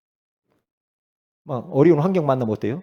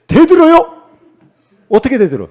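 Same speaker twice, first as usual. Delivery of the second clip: loud, much higher mock challenge; mock shout; 10 semitones higher, 11 dB louder than usual. Pastor teasing a church member, loud mock challenge. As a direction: fling the question out like a dare.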